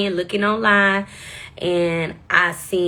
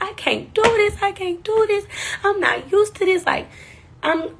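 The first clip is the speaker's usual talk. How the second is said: much higher, desperate crying wail; screaming in despair; 5 semitones higher than usual. Retold or imitated. Alone in her car, crying out in despair, much higher. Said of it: "I'm screaming in my car to the top of my lungs".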